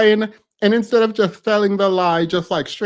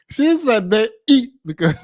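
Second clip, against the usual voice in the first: laughing; 4 semitones higher than usual. Real, not acted. Laughing while quoting the clip.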